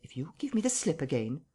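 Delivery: a breathy menace from nowhere; whispered warning to a captive; threatening whisper. Acted. Invisible voice threatens Marvel.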